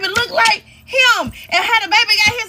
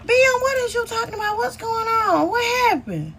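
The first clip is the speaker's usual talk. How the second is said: mock innocent sister; 3 semitones higher than usual. Sister voiced playing dumb.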